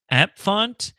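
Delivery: "App font" with a clear F, rising questioningly; high, tentative "App font", ending upward; guessing a pronunciation. Shown as a demonstration. Streamer guessing how a font name is pronounced, "App font" as a question. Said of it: "not sure how they pronounce it".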